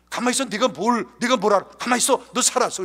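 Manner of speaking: retold flustered scolding; brisk, emphatic telling-off of a son; father hushing child. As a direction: shush him firmly, retold. Embarrassed father hushing his son.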